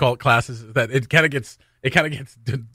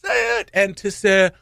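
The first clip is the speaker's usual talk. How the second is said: audience call-out; 10 semitones higher, slower than usual. Shown as a demonstration. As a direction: shout it high like a crowd egging the singer on. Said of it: "in the middle of that, you say".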